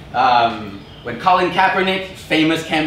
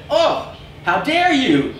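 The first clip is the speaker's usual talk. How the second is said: much higher, slow, hammed-up indignation; mock outrage; 10 semitones higher, much slower than usual. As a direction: drag it out like a fake-offended company. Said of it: "They said".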